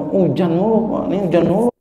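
a touch of a grumbling neighbour woman; lightly imitating the housewife's complaint; mild complaining. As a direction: whine lightly about the endless rain. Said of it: "kata si Mpok itu".

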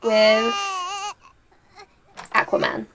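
half-laughing fake sob; tearful, hammed-up disbelief; teary mock lament over the game; mock crying. Mock tears over Sim baby.

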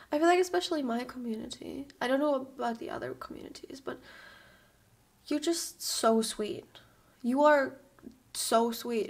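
sincere thanks. Real, not acted. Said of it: "I just feel so thankful".

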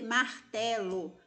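martelo slowly, syllable by syllable; syllables spelled out. Shown as a demonstration. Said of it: "São palavras que têm três sílabas". (martelo devagar, sílaba por sílaba)

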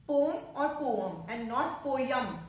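slow poem "pome" or "po-em", not "po-yem"; no y glide in poem; correct poem. Shown as a demonstration. Teacher slowly contrasts poem against "po-yem". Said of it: "You don't have to stress on Y".

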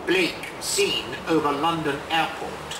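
measured, deliberate poem reading with long pauses; unhurried poet's reading voice; poetry reading. Acted. Poet reads his poem aloud.

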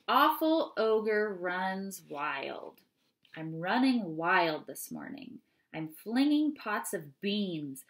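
lively, rhythmic read-aloud of a silly poem; poem reading to children. Acted. Teacher reading a funny ogre poem to the class, lively read-aloud. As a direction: bounce through the verses for the kids.

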